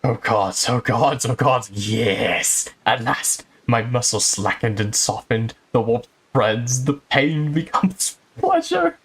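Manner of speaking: slow, drawn-out mock ecstasy; hammed-up sensual moaning. Inspector enjoying the oil massage, hammed-up sensual moans. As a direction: moan it out as a parody of bliss. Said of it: "It's my sensual voice".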